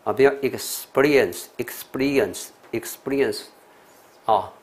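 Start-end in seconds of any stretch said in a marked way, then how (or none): 0.4-3.4 "experience" said slowly as ik-SPEE-ri-ence; stress after the S. Shown as a demonstration. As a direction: keep S and P together in "experience", leaning on SPEE. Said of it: "重音都是落在这个S". (示范 experience 重音落在 S 后面)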